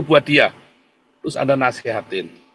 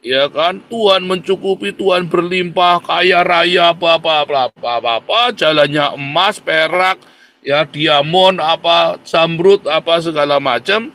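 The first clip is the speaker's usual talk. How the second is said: louder, drawn-out preacher praise; mock prosperity sermon; 2 semitones higher, 4 dB louder than usual. Mimicking a pastor preaching riches to poor congregation, mock grandeur. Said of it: "Gereja tiap hari ngotbahin jemaat".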